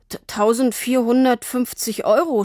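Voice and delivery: put-on nervous young salesman stutters out the price; stammering. A narrator's reading. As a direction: stumble on the first syllable, then rush the number. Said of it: "stotterte er".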